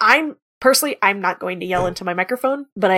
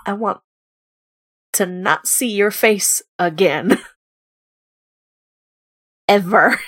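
carefully picked words. Acted. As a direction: choose each word through gritted teeth. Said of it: "trying to pick words carefully".

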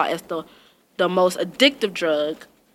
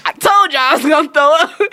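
retold loud warning; 6 semitones higher, 7 dB louder than usual. Warning coworkers before throwing up.

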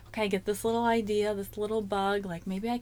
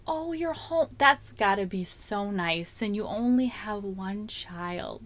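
mock other moms; slower than usual. Other moms needling a stay-at-home mother, slow and snide. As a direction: drag it out like a catty compliment. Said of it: "as other moms, it's like".

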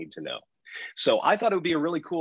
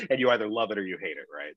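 laughing; 2 semitones lower, faster than usual. Real, not acted. Laughing through the line.

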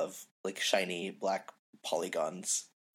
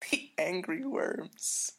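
mocking; 9 semitones higher, much slower than usual. Repeating the wrong band name.

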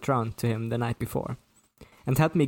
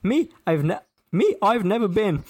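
Cockney cabbie, higher than the narrator; hammed-up, higher-pitched Cockney patter; thick Cockney; 6 semitones higher, 4 dB louder than usual. A narrator's reading. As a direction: rattle off rhyming slang in broad Cockney. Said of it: "a traditional London Cockney".

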